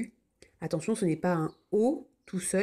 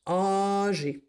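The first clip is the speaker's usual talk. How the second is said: whispered. Shown as a demonstration. Teacher whispering the next word. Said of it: "whispered word".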